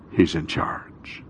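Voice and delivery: slow, hushed whisper of certainty; slow awed whisper; dramatic whisper. Acted. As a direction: breathe it like a secret to the room. Preacher drops to dramatic whisper.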